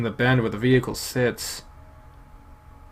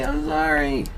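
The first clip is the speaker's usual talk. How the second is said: panicked. Acted. Panicked apology repeated.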